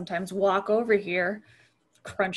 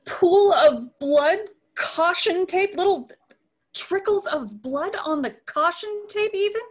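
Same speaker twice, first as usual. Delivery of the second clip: appalled; 8 semitones higher, 5 dB louder than usual. Acted. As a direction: spell out the gore in disbelief. Appalled at crime scene.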